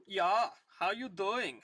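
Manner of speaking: rough try at a German accent. Shown as a demonstration. Reader finding a voice for the German guy, German accent. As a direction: warm up a clumsy German accent. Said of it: "I gotta get my German accent".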